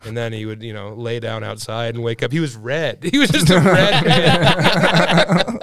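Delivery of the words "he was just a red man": slow words broken by laughter; laughing, slow. Real, not acted. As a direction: stretch it out while laughing. Laughing through the story.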